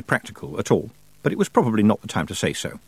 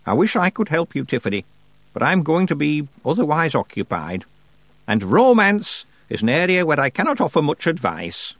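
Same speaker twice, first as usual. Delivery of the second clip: put-on raised, deliberate voice of an imperious old witch; old witch Miss Treason; 5 semitones higher than usual. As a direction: play the grand old witch holding court.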